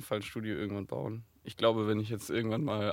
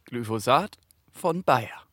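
slow, louder slogan tag line; chipper 1950s ad; 4 dB louder, slower than usual. Acted. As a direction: land the brand name like a jingle. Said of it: "Das war der Werbedeal".

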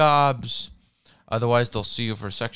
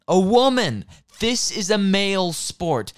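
outraged exclamation; 6 semitones higher, 4 dB louder than usual. Real, not acted. Sports fan hearing a woman talking on radio, outraged.

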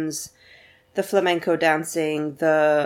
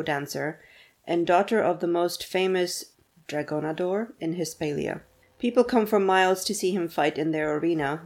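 put-on steady reading of a book blurb, names with Spanish accent. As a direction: read it like a back-cover blurb. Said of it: "beautiful reading".

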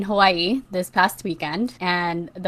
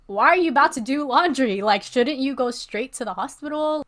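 higher-pitched, disbelieving retold questions; retold bewildered protest, pitched up; incredulous; 7 semitones higher than usual. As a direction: question mom in baffled disbelief. Retelling her disbelief at mom's casualness.

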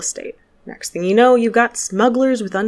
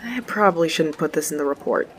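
ordinary delivery

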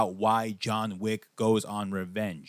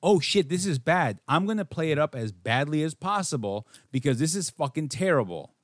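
mock dismayed actor. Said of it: "you're like".

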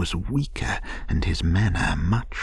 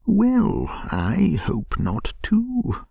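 a hearty, higher burst on Well; 13 semitones higher, slower than usual. A narrator's reading. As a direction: say it heartily and cheerfully. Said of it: "said the rat heartily".

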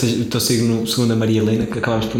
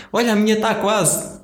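put-on old lady voice; 9 semitones higher than usual. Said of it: "giro era a velha dizer".

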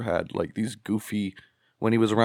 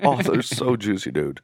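sleazy dude imitation. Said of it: "Yeah, yeah".

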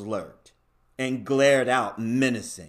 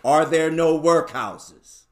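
loud mocking question; scornful retort; 2 semitones higher, 6 dB louder than usual. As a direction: throw his own words back. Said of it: "turning on him with his own words".

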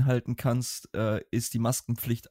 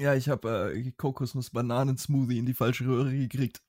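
choking on a drink. Real, not acted. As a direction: still recovering from choking. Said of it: "Hat sich da jemand verschluckt?".

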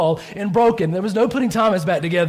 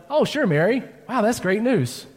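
mock belief; 5 semitones higher than usual. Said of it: "No, you're not".

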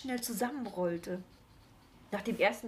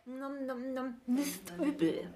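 munching noises; 5 semitones higher, slower than usual. A narrator's reading. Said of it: "mit lautem Geschmatze verspeist".

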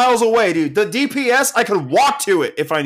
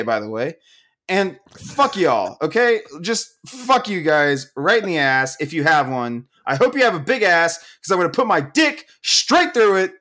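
angry. Real, not acted. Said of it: "I'm so mad right now".

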